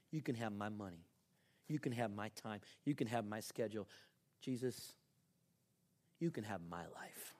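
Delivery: low, earnest prayer of surrender; gentle, measured devotion; sincere prayer. Shown as a demonstration. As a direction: offer each thing up quietly. Models a personal prayer of surrender.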